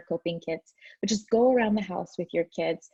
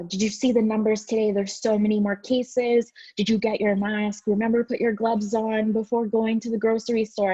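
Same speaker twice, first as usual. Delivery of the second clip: slightly raised, urgent panicky chatter; mock freaking out; 3 semitones higher, 3 dB louder than usual. Parent on the phone to friends about case numbers, mock freaking out. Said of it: "freaking out".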